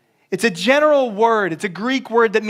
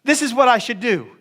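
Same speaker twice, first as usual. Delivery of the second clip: higher-pitched imitation of an insistent kid; eight-year-old player; 5 semitones higher than usual. Kid telling his soccer coach the plan, imitated insistence. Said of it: "they'll come to me and they're like".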